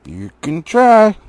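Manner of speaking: hammed-up troll jeer. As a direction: sneer it out slowly like a big troll. Troll voice in read story.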